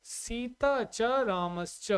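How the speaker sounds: सीता च रामश्च spelled out slowly, word by word; slow dictation. Shown as a demonstration. Teacher dictates the split to students, slow and deliberate. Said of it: "तो यहाँ क्या लिखोगे?".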